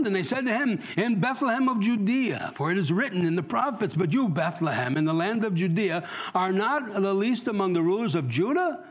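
emphatic, lifted Bible reading; animated pulpit reading with strong word stresses; scripture reading. Real, not acted. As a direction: read the verse out to the congregation. Reads scripture aloud to congregation.

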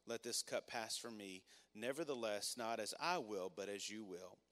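quiet, solemn Bible reading; scripture reading. Acted. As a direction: read the passage gently, like holding something fragile.

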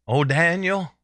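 understated mock-mournful cry; mourning voice. King calling to Daniel next morning, almost mourning. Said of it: "with almost a hurtful, mourning voice".

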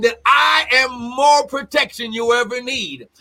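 forceful shouted preaching. Real, not acted. Preacher exhorting the congregation in a shouted build. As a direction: hammer each line home to the pews.

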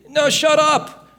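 loud, high, drawn-out command; shouted rebuke. Acted. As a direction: shut the complainer down with a slow shout. Rebukes the fearful voice.

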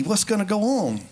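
lightly imitated freak-out; mild mock panic. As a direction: play a worried disciple, not too seriously. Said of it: "they're all freaking out".

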